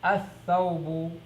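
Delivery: "Athawbu" drawn out slowly, the lam unheard and the tha doubled; slow teacher model of "Athawbu"; slow pronunciation demo. Shown as a demonstration. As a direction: spell out "Athawbu" slowly for the class. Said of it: "it's gonna become athawbu".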